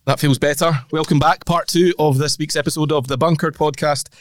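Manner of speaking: blocked nose, stuffy cold voice; nasal voice. Real, not acted. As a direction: talk through a stuffy nose. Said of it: "do excuse the, the nasal qualities of, of my tones today".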